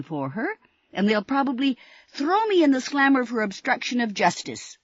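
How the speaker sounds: high, loud worried rambling; panicked mailman. Acted. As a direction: spill out every fear at once. Panicked mailman's breathless rant.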